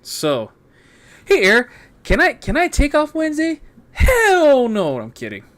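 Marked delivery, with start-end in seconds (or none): 1.2-5.0 mock request and refusal. Asks boss, answers himself.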